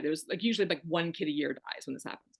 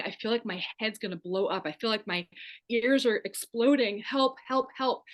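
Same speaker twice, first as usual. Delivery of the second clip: retold desperate plea; 4 semitones higher than usual. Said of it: "as I'm hysterically crying, saying".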